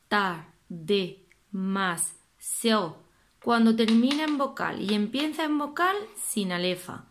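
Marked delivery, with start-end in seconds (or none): 0.1-3.0 lee "tar, de, mas, seo" sílaba a sílaba, despacio; sílabas separadas. Shown as a demonstration. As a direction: corta cada sílaba con pausa. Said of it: "Vais leyendo la". (separando sílabas despacio)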